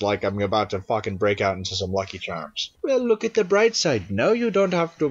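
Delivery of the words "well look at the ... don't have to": character line read. Acted. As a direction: lilt it up high, playing a character.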